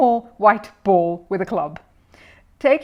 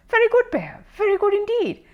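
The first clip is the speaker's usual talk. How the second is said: put-on gruff old neighbour; 14 semitones higher than usual. Curry's gruff praise.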